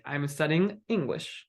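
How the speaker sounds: statement tune, "English" drops; falling intonation. Shown as a demonstration. Teacher repeats the example statement, falling intonation. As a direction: bring the pitch down on "English". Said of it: "Just falling".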